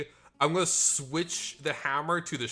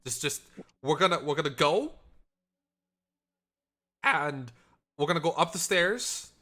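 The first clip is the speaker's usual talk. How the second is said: on the verge of tears. Acted. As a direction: soothe her while holding back tears. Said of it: "She sounds like she's gonna cry".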